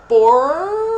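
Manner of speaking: PORCO loud, with POR stretched, then a break before CO; every sound heard. Shown as a demonstration. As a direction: draw out the R in PORCO and split it. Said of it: "Eu escuto o som do P". (PORCO forte, alongando POR, sílabas separadas)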